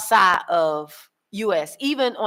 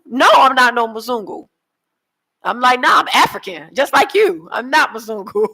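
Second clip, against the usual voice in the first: loud insistent protest; mock indignant; 3 semitones higher, 5 dB louder than usual. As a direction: protest it, half laughing, half mad. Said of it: "I be mad".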